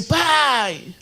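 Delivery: high imitated yell of a daughter; child's shout. Daughter calling her father as he comes home, high shout. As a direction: call out high and drawn out for a parent. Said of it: "Ela gritando assim".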